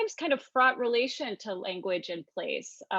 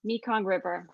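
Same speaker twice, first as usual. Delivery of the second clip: slow, measured poem reading; poetry reading; slower than usual. Shown as a demonstration. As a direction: read the poem slowly, weighing each line. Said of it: "and then my translation".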